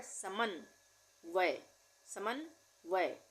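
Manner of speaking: समन्वय drawn out syllable by syllable; slow dictation. Shown as a demonstration. Teacher dictating to students, very slow and clear. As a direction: stretch समन्वय so each sound is heard. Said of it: "आधे न का उच्चारण हो रहा है".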